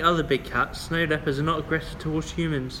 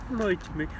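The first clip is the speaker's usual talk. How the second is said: raised-pitch Brummie greeting; Birmingham accent; 5 semitones higher than usual. Retold or imitated. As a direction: mimic a Brummie saying hello. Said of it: "I fucking hate the Birmingham accent".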